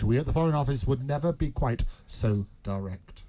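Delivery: understated secretive informant; lightly acted informant. Informant evading the journalist's question, lightly secretive. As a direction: play it discreet and knowing, barely changed. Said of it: "said Sore Throat".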